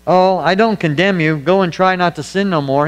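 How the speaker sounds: breezy, offhand mock pardon, lightly voiced; mock lenient version. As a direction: toss it off like a lax excuse for sin. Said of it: "He didn't say".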